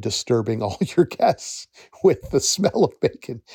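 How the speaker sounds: words broken by a real laugh; laughing while talking. Real, not acted. Advising job seekers about bad roommates, laughing. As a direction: laugh through the bacon image. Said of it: "I'm, I'm laughing".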